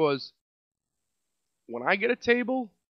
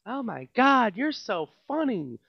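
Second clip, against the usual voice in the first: mock customer; 4 semitones higher, slower than usual. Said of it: "customer quote".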